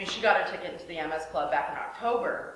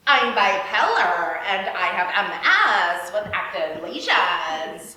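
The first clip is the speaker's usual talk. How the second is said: mock blurt; 3 semitones lower, 5 dB louder, slower than usual. Mocking her blurted announcement.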